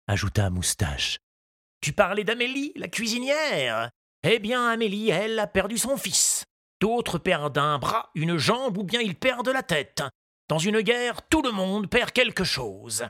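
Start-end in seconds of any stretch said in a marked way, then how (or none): 1.8-13.0 grieving gardener. A narrator's reading. Moustache recalls his ruined garden, sorrowful. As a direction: let the loss weigh.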